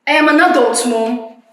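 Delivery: upset protest. Acted. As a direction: insist on your right to know. Daughter pushing back at mother.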